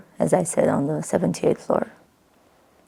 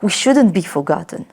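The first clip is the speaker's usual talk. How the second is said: firm public appeal, stressing shouldn't; like a politician. Acted. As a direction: declare it like a campaign speech. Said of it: "I know I sound like a politician".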